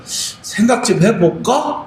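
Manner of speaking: drawn-out, slow noncommittal answer; mock Chungcheong hesitation, said slowly; slow Chungcheong musing. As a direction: stretch it out, slowly, like someone unsure whether to accept. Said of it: "충청도 사람들은".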